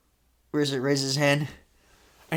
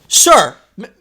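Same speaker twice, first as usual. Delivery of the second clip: put-on Jamaican accent; 8 semitones higher, 6 dB louder than usual. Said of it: "thick accent".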